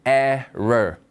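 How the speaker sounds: "Error" drawn out slowly in English, falling at the end; English pronunciation. Shown as a demonstration. Teacher models the word for learners to repeat, slow English "Error". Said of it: "다시 한번 글자 보시면서 갑니다".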